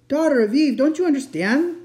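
high, loud, urgent plea; anguished exasperation. A narrator's reading. Fawn pleading with Lucy to understand, anguished. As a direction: cry out to make her understand.

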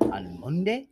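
badly faked Puerto Rican accent; imitated Puerto Rican accent. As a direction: attempt a Puerto Rican woman's accent, haltingly. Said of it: "she talk like this".

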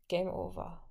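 whispered. Acted. Violet giving up alone in her cell, soft resigned whisper. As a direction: let it go on a whisper. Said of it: "flüsterte sie".

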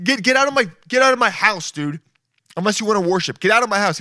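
throwing him out, hammed up; mock angry. Host ordering the pillow guy out of his house, mock angry. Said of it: "And I'm like".

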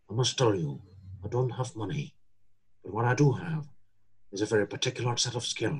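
low, soft, slow gravel-free menace, half whispered; Liam Neeson impression. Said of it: "Kalau Liam Neeson".

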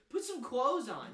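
high, drawn-out scolding order; retold yelling. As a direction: mildly yell it, imitating an annoyed parent. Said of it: "yelling at me".

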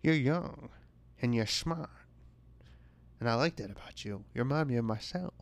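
lightly voiced old-timey speakeasy lady; a hint of a sassy older woman judging a pitch; impression of Barbara. Barbara judging the pitch, lightly voiced speakeasy lady. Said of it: "try to do an impression of her".

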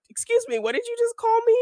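offended guy. Retold or imitated. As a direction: play him as outraged and disbelieving. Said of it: "he's like".

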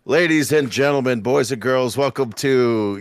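ringmaster calling out to the crowd; big announcer welcome, slowing at the end; grand entrance announcement. Acted. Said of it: "I'd rather be like the ringmaster".

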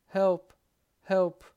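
the cry for help now at its loudest. A narrator's reading. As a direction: scream help at full force. Repeated cries for help.

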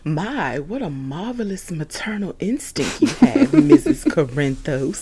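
fake Marty voice. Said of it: "That's my fake Marty voice".

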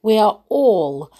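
smiling. Acted. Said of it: "she said with a smile".

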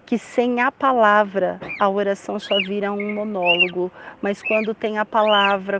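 even, subdued praying voice; prayer. Real, not acted. Leads a prayer. (oração serena, em tom contido)

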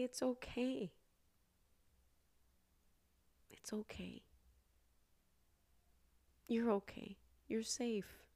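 gentle soothing, with long pauses; tender reassurance. Acted. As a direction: comfort a small child in your arms. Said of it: "hold your little person in your arms".

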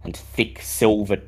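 slow, even scene setting; game master narration. Acted. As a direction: paint the scene for the players.

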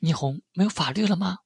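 high-pitched, defiant retort; feisty. A narrator's reading. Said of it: "梅芳华反倒彪悍得很". (彪悍地高声反问)

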